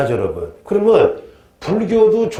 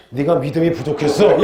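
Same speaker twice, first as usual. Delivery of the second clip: 비꼬는 흉내. Acted. 낙방생에게 하는 말 흉내.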